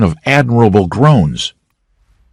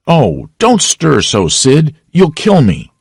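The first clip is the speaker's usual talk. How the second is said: hammed-up moaning; 7 semitones higher, slower than usual. Tom faking pain to Sid.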